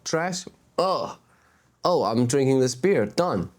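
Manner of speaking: mock careless litterer. Mocking careless beach litterers.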